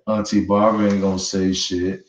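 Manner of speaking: lightly voiced nephew shrugging it off; imitating the nephew. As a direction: say it the way the nephew sounded, dropping the voice. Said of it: "that's exactly how he sounded".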